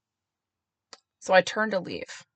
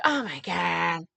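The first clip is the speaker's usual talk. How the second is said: mock exasperation; much slower than usual. Mother's exasperated reply, imitated.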